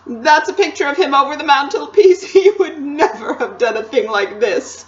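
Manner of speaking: loud wailing faun voice; tearful lament. A narrator's reading. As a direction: lament with a sob breaking in. Sobbing faun laments his deed.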